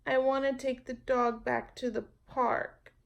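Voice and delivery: put-on high child's voice, resolved; girl deciding to do right; a small sincere child; little girl voice. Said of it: "Jamaica said".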